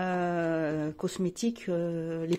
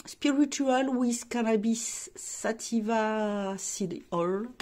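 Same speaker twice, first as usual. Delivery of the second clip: slow English product name, French accent; careful French-accented English; attempted English accent; much slower than usual. Real, not acted. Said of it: "l'accent c'est good".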